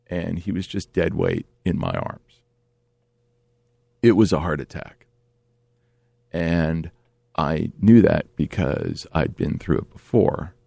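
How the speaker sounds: low, grave storytelling; subdued, measured and serious; somber. Real, not acted. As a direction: drop low and let pauses weigh.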